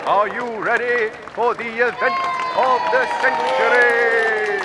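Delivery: fast hyped-up crowd call; hype shout. Acted. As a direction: whip the crowd up. Announcer hypes the crowd.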